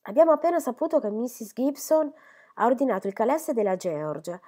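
an eager lady bustling in to scold fondly; chattering Miss Phoebe. Acted.

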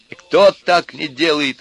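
high, slow, loud protest; upset, drawn-out retort; tearful objection. A narrator's reading. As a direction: object hotly, stretching the question. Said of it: "возразил Костя, вытирая слёзы".

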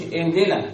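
اهدنا with the h swallowed entirely; dropped haa. Shown as a demonstration. Teacher showing what to avoid, dropped haa. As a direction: skip the h, jumping from i to d in اهدنا. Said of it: "مفيش هاء".

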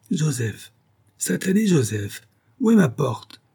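high, irritable call for a servant; crying out. A narrator's reading. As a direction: call out crossly as you wake, without full shouting. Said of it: "tout en criant".

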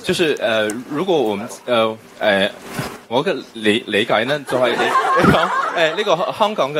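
halting Cantonese with a Mandarin accent. Real, not acted. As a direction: Mandarin speaker struggling through Cantonese. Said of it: "我很，很欣賞你用廣東話講".

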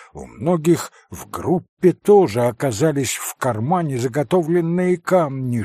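ordinary delivery, nothing marked

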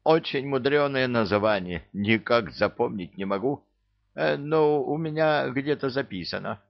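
high whining beggar; whiny high pleading voice. Acted. Thief character voice.

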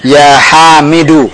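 slow, careful teacher model; slow, deliberate recitation model; model answer. Shown as a demonstration. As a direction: spell it out slowly for the student. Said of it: "Dari awal".

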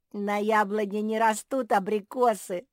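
high, loud teasing; giggly mockery. A narrator's reading. Squirrel correcting the bear cub, amused taunt. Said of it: "захихикал Бельчонок".

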